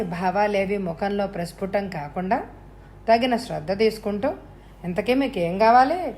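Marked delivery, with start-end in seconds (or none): 4.8-6.1 mildly fed-up host asking what the intruder wants; showing annoyance. Acted. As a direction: let some impatience slip into the question. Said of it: "అన్నాడు విసుగు ప్రదర్శిస్తూ".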